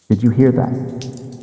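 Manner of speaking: retold yell. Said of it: "Josh yells back, very echoey".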